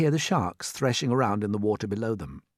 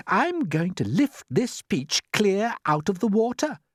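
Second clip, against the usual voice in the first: firm announcement; 10 semitones higher, 4 dB louder, slower than usual. Acted. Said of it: "James announced firmly".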